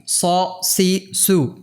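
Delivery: "স, সি, সু" as Arabic Sad, unlike plain s or sh; heavy Sad letter. Shown as a demonstration. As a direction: say "স, সি, সু" as so, si, su with Arabic emphatic S. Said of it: "সদের উচ্চারণ কিন্তু সিনের মতোও না". ("স, সি, সু", আরবি সদ-এর উচ্চারণে)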